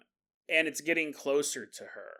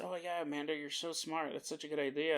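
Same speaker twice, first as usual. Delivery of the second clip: mock sarcastic praise; 9 dB quieter than usual. Sarcastic praise of Amanda's idea.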